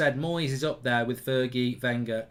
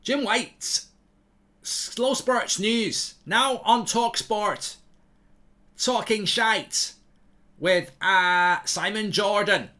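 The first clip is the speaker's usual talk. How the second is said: mock sports-news jingle read, slow and higher; radio announcer; 5 semitones higher, 3 dB louder, slower than usual. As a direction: stretch each phrase like a radio presenter.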